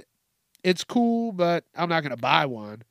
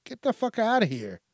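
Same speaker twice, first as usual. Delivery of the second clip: disgusted; 7 semitones higher, 3 dB quieter than usual. Retold or imitated. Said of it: "I'm like".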